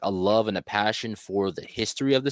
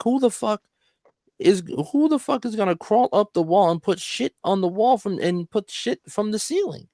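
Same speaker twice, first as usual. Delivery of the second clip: mock outraged cop; 12 semitones higher than usual. Cop's outraged retold question.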